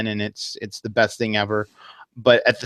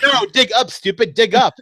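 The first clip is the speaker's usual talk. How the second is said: exasperated yell; 9 semitones higher, 4 dB louder than usual. Retold or imitated. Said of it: "They're like".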